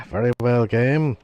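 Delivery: grudging give-in to the game; weary sigh. Acted.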